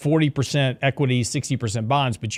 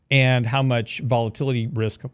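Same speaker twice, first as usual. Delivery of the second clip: talking through the hiccups; hiccuping between words. Real, not acted. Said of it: "Excuse me, got the hiccups".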